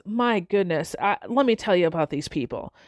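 low, mildly exasperated grumble; lightly acted eye-rolling weariness. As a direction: confide a complaint, low and fed up. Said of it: "kinda roll his eyes".

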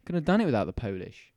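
heated, swearing rant. Real, not acted. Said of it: "get him all riled up like this".

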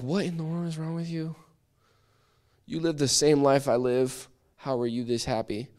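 high-pitched, incredulous questioning; acted bafflement. Unbeliever questioning a happy Christian, in high-pitched bafflement.

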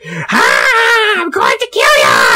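high-pitched anime hero imitation; mock battle scream, far up in pitch; Goku. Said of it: "He's got, like, a high-pitched voice".

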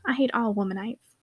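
put-on whispered, scornful boy's vow; sullen whisper. A boy grumbles his dislike of women at the table, whispered. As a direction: breathe the hatred out under the breath.

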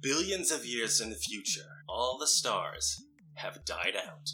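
slow, grand story narration; narrator voice. Acted. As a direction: set the scene like an epic opening. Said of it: "narrator voice".

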